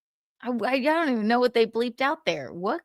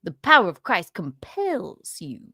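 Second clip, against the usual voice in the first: mock preacher; 3 semitones lower than usual. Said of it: "he sounds like a preacher".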